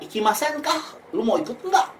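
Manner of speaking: high lilting invitation, rising at the end; inviting question. Acted. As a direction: ask them along, lifting "ka" and "enggak" high. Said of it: "jadi kita mengajak". (nada mengajak, tinggi di akhir "ka" dan "enggak")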